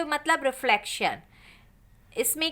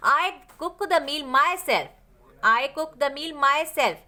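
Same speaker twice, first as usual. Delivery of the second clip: slow dictation; much slower than usual. Shown as a demonstration. Dictates the example sentence.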